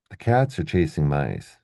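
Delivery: measured beats on "cats", "chasing", "mice"; stress-timed reading. Shown as a demonstration. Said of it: "he reads sentence number".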